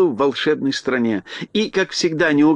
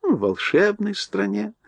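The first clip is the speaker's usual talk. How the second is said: calm; 5 semitones higher than usual. Acted. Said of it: "спокойно сказала Рамина".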